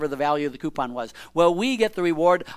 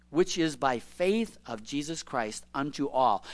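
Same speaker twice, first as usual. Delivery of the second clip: slow, weighty reread of the verse; slower reread; 3 semitones lower, 5 dB quieter than usual. Shown as a demonstration. Preacher rereading the verse to his church, slow and weighty. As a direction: lean on each word of the verse again. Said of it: "But verse twenty-two again".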